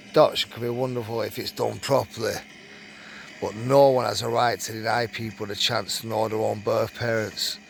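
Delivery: reading a written account aloud; story read-aloud. Acted. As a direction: read it out like a magazine true story.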